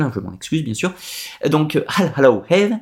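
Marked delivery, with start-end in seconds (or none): 1.9-2.7 bad English accent, repeated. Shown as a demonstration. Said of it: "mon accent anglais qui est absolument terrible".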